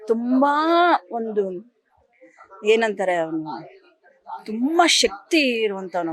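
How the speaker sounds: slow, tearful words, voice breaking into tears; a grieving mother fighting back tears; real crying. Real, not acted. Mother recalling her dead son.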